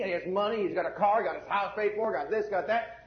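mock complaint, voice lifting on the gripes; acted grumbling. Preacher imitates Christians comparing themselves with a heathen, mock grumbling. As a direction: act out a believer griping about the neighbor. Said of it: "People talk like that".

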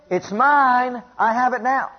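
high, insistent claim with drawn-out MINE; defiant declaration. Acted. Defiant answer to the devil.

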